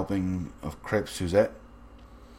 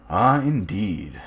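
solicitous; 5 dB louder, much slower than usual. Acted. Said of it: "the general inquired solicitously".

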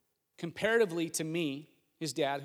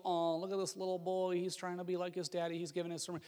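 cutesy mock tone; 4 dB quieter than usual. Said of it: "a cutesy little".

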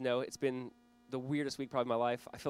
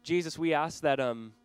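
earnest prayer. Real, not acted. Pastor praying before the sermon, earnest prayer voice. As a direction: pray it sincerely over the room.

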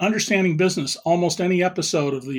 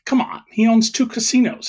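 retold disbelief; 5 semitones higher, 3 dB louder than usual. Retelling his disbelief at executives.

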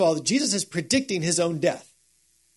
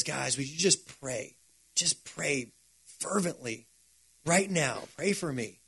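quiet plea; 2 semitones lower, 7 dB quieter than usual. Retold or imitated. Jesus asking friends to pray.

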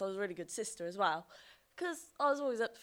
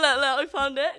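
put-on higher and louder, eager child; excited child; 6 semitones higher, 9 dB louder than usual. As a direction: burst out proud and eager. Child proudly finds the money.

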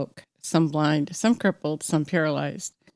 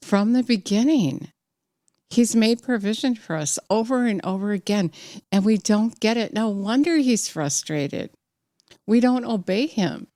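excited; 4 semitones higher than usual. Real, not acted. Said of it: "I'm really excited today".

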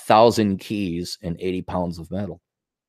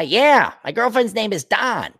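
Minnesota voice, higher, Dawn said as Don; Minnesota accent; 9 semitones higher than usual. Retold or imitated. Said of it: "do not distinguish between Dawn".

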